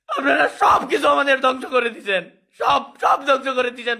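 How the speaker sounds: tearful, voice cracking; sobbing accusation; snotty crying. Real, not acted. Crying while complaining.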